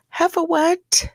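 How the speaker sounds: high, breathless whispered aside; incredulous whisper. Real, not acted. Vlogger reacting to the mail complaint, incredulous whisper. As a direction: whisper it in disbelief to the audience.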